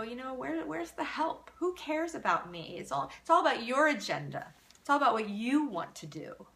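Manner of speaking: lightly voiced upset kid; hurt kid. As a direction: plead like a hurt child. Kid's hurt protest voiced.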